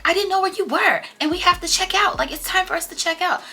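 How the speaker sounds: high, loud whiny friend voice; mimicking Coco upset. Friend Coco quoted in quarrel.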